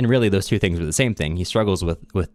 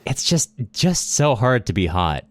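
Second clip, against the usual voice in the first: slow, hammed-up self-pity; mock dramatic lament; 3 semitones higher than usual. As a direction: sigh it out like a burden. Joking about being too hot.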